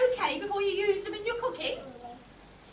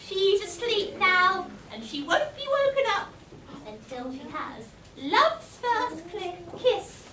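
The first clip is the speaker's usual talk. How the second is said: gloating witch. Acted. Villain gloating monologue.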